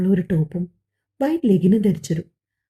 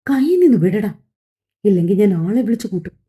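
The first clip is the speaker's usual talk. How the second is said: pained threat. Acted. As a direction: threaten to call for help. Wrist held, threatens to shout. (വേദനയോടെ ഉച്ചത്തിൽ)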